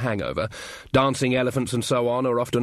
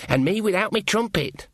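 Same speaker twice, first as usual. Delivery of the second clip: high-pitched, dismayed aside; hissed dismay; 8 semitones higher than usual. A narrator's reading. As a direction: fret that you're caught unprepared, pitched up. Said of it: "hissed Sean".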